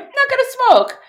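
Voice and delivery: sudden high, loud declaration; mock solemn vow. To herself the night before, a hammed-up high vow. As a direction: announce it like a big resolution. Vowing to quit weed.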